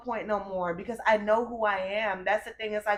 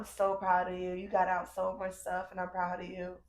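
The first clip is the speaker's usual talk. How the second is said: put-on proud inner child; 3 dB quieter than usual. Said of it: "That little girl inside is like".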